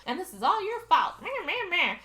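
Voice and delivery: sing-song parody of someone ranting; dismissive imitation of a tirade; mocking retold rant. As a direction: mimic an accusing rant, trailing into whiny nonsense. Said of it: "goes on a ridiculously long rant".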